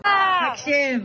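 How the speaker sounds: barked army orders. Real, not acted. Counselor drilling campers at roll call.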